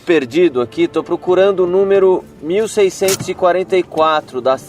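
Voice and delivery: calling out. Real, not acted. Calling out to a house from the street.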